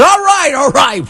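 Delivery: put-on high, pleading kid; kid giving in. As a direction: blurt it out to stop the slaps. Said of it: "The kid says".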